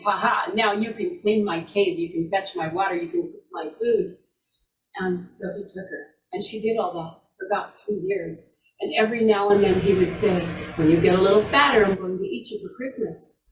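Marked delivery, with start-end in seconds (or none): 0.0-4.2 a lightly voiced, lower troll, laughing as he gives orders; a hint of a troll bossing his captive; gloating mountain troll. Mountain troll gloats to the captured princess, lightly lower and mocking. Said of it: "the mountain troll is laughing and saying". 10.8-13.4 loom over her, then hush the promise; menacing troll. Acted. Troll threatens to eat the princess, a loud then hushed menace.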